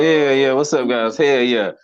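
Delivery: loud, hyped hello to the room; comic grabbing the mic, greeting the crowd loudly. Real, not acted. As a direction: pump up the crowd.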